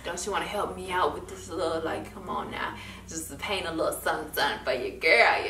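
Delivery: soft, quick wheedling; coaxing plea. Retold or imitated. Student to classmates, soft quick wheedling plea. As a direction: coax your friends sweetly. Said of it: "I was just like".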